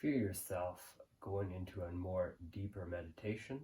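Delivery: guided meditation. Real, not acted. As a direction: guide the listener gently into the present moment, unhurried.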